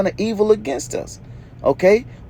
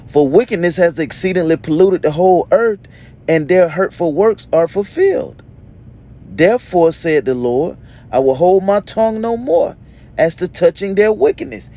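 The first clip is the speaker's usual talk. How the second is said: scripture reading; 3 dB louder than usual. Acted. Reads scripture aloud to congregation.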